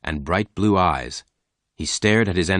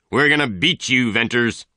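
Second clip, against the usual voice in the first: shouting threat; 5 semitones higher than usual. A narrator's reading. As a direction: shout it at him, fast and hot. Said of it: "he shouted".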